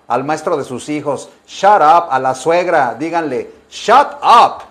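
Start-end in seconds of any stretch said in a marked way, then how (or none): 1.5-2.1 fuerte y agudo, cortante; suéltalo con fuerza; shut up gritado. Shown as a demonstration. Ejemplo al maestro. 3.7-4.6 fuerte y agudo, cortante; suéltalo con fuerza; shut up gritado. Shown as a demonstration. Ejemplo a la suegra.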